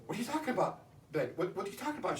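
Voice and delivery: baffled reply. Retold or imitated. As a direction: ask it like you honestly can't follow her. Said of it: "I was like".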